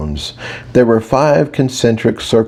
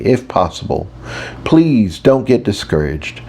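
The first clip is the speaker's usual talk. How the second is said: patient teacher; 2 semitones higher than usual. Acted. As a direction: coax the class along, hiding some frustration. Mage teacher addresses centaur class.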